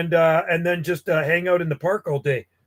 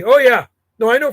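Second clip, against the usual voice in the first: excited; 6 semitones higher, 7 dB louder than usual. Real, not acted. Reacting to a caller, loud.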